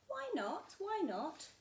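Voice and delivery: a small creature pestering her dad; curious little Gruffalo child. Acted. Gruffalo's child asks father.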